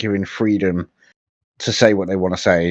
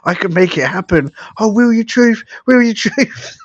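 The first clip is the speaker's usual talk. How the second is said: much higher, teasing sing-song; mock flirty voice; 11 semitones higher than usual. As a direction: tease him in a high put-on voice. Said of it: "he's like".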